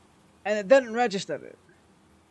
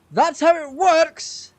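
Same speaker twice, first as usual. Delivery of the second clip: indignant rant; 7 semitones higher, 6 dB louder, slower than usual. Real, not acted. Rant at developers.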